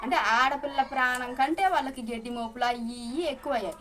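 hurt, real tears breaking through; choked-up bitter complaint; near tears. Real, not acted. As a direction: voice catching on a cry. Bitter about relatives ignoring danger.

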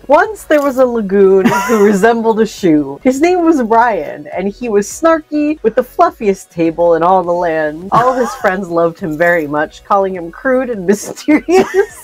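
storyteller voice breaking into giggles; storybook narration. Acted. Reading the silly filled-in story to a friend, storybook narration. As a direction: read it like a fairy tale, amused. Reads mad-lib story aloud.

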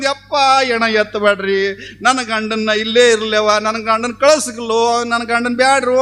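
imitated widow's lament, lightly wailed; mock tearful pleading. Wife begging mourners to leave the body, mildly mock-tearful. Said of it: "ಅಂತ ತಿಳ್ಕೊಂಡು ಅಳಾಕತ್ತಿದ್ಲು".

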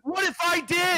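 high-pitched, insistent comeback; angry challenge. Real, not acted. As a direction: press the challenge hard. Challenge repeated in a quarrel.

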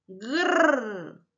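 Grr as a low rolled growl; growled gr sound. Shown as a demonstration. Teacher demonstrates the blended sound to children: low growl. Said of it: "decimos sus sonidos juntos".

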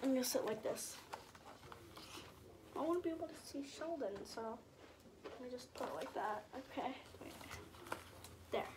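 soft offhand aside; hushed aside. Real, not acted. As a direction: drop out of the story to mutter a setup note. Reader's own hushed aside.

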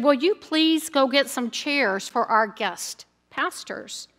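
softly and slowly, a hushed retold whisper; quiet request to a layperson during the service; mock whisper. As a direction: lean in and ask quietly, half-whispering. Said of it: "he whispered into one of the layperson's ear".

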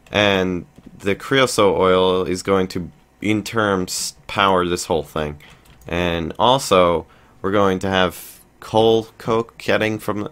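halting, drawn-out false starts; slow down and trip over the phrasing; stumbling over words. Real, not acted. Player explaining the coal coke setup, stumbling over words. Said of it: "stuttering so much and having trouble speaking".

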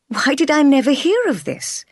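high, astonished question; genuinely taken aback; amazed. A narrator's reading. Jane to her aunt, hearing of her uncle, amazed. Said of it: "I asked, amazed".

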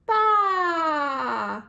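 loud, high bleating baa; sheep bleat. Shown as a demonstration. Teaching a toddler farm animals, a loud sheep bleat. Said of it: "Sheep says".

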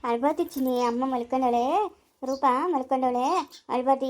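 calm the little one down; soothing a child. Acted. Adult telling a crying child not to cry, soothing.

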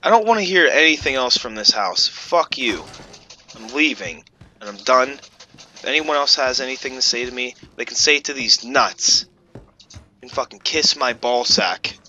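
loud fed-up rant; angry rant. Real, not acted. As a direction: rant angrily, fast. Rage quit rant.

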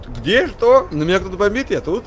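imitating Dima. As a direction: play Dima popping up at the mention of his name. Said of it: "он, Дима как тут?". (передразнивает Диму)

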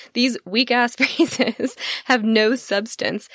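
slowed, savoring it through real laughter; relishing the rude phrase while giggling; laughing, slow. Real, not acted. Host re-reading her notes to listeners, amused, laughing. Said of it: "Sorry, I'm laughing".

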